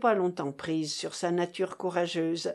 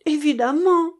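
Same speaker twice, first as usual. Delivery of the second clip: emphatic agreement; 7 semitones higher, 9 dB louder than usual. A narrator's reading. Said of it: "approuva madame de Staël".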